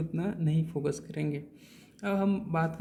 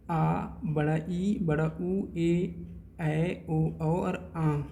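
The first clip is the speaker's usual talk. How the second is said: long vowels drawn out; much slower than usual. Shown as a demonstration. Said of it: "वैसे ही हमारे दीर्घ स्वर जो होते हैं".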